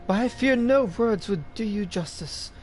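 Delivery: lightly voiced poetic admirer; courtly flatterer. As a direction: lay on lofty, flowery praise.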